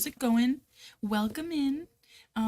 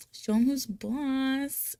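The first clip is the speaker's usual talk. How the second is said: slow, drawn-out Rhode Island vowels; higher, stretched Rhode Island twang; Rhode Island accent; 5 semitones higher, much slower than usual. Real, not acted. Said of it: "Rhode Island accent".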